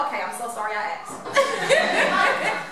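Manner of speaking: high, drawn-out comic backing away; mock awkward regret. Acquaintance regretting the question, mock awkward. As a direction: stretch it high as if edging out of the conversation.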